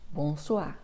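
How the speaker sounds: bonsoir said clearly, as a model for the learner; model pronunciation. Shown as a demonstration. Teacher models bonsoir for the learner, clearly. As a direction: show how bonsoir sounds, bon-SWA. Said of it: "on utilise le mot".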